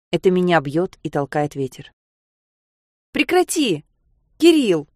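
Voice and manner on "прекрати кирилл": much higher, a shout to stop him; girl shouting at her friend walking the roof edge. Acted. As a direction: yell to make him stop, louder on his name. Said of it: "крикнула я".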